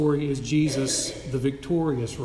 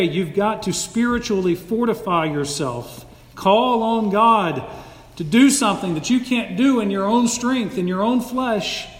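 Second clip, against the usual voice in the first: fervent exhortation; 4 semitones higher, 3 dB louder than usual. Real, not acted. Preacher urges congregation to call on God, fervent and loud. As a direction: press it home with full fervor.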